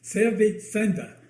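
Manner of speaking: tongue held while talking; holding tongue with fingers. Pretend. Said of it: "Hold your tongue and say that".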